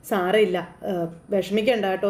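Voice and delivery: put-on calm the little girl gently; a hint of a nun soothing a child. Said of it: "സമാധാനിപ്പിച്ചു".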